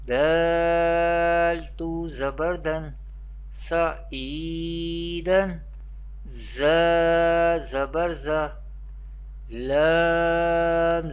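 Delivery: measured Qur'anic spelling drill, long level "Ain", shorter "Zabar"; Arabic spelling recitation. Shown as a demonstration. Teacher teaching an Ikhfa example with spelling, Arabic letter-by-letter recitation. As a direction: spell it out piece by piece, letter names like "Sod" and "Lam" held long. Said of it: "We will learn with spelling".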